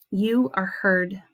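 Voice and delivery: slow, gentle affirmation spoken to them; affirming the listener. Shown as a demonstration. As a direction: tell them slowly and tenderly that they are heard. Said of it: "this is what it would sound like".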